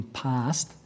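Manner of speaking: "passed" set apart with emphasis; stress on PASSED. Real, not acted. Questioner on homes in the rollout, stressing "passed". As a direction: land firmly on "passed". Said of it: "and I emphasise passed".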